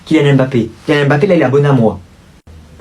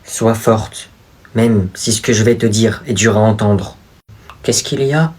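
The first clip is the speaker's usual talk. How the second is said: cringey drama acting; 4 semitones lower than usual. Boy confessing his dangerous powers to his sister, soap-opera style. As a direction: overplay a tragic secret. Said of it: "le jeu d'acteur en frisson de gêne".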